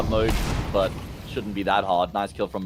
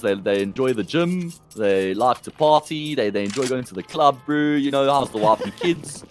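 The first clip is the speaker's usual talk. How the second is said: Four Ways bro accent. Shown as a demonstration. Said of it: "Then you go to Four Ways Brew".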